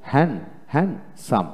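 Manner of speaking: হ্যান্ডসাম as "han... sam", no d; silent d. Shown as a demonstration. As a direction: split হ্যান্ডসাম after "han", leaving out d. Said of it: "এখানে ডি উচ্চারণ হবে না". (ডি ছাড়া হ্যান্ডসাম উচ্চারণ)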